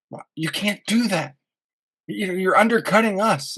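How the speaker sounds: mocking rival marketers. Guest mocks rival marketers who phoned him, in a high whiny mock voice. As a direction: sneer it like a jealous competitor.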